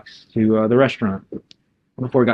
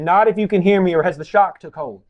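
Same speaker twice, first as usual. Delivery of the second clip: higher-pitched, urgent checking; anxious raised pitch; alarmed concern; 4 semitones higher than usual. Acted. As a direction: try to rouse someone in shock. Dale finds Rachel possibly in shock.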